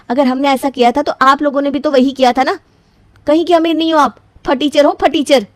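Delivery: angry retort. Acted. Bride insulting in-laws.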